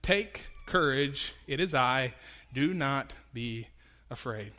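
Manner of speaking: slow, gentle voice of Jesus; calm reassurance. Acted. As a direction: settle their fear, slowly. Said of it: "Jesus immediately said to them".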